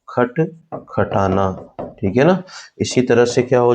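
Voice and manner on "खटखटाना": stretched out slowly; slow dictation; slow repeat. Shown as a demonstration. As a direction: repeat the word slowly for the class. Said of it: "इस तरह से repeat हो रहा है".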